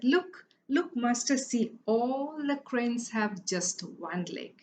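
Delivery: high eager look look, slowing on one leg; excited servant. Acted. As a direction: point triumphantly at the birds. Servant eagerly points at cranes.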